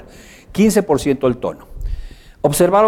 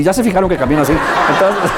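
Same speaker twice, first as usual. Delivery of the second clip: laughing; 7 semitones higher, 4 dB louder than usual. Real, not acted. Laughing at own walk.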